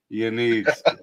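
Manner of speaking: chuckling while saying it; laughing version of the same line. Shown as a demonstration. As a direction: repeat it through a laugh.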